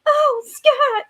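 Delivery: high sighing swoon; swooning damsel. Retold or imitated. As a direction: sigh his name like a lovesick heroine. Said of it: "she's like".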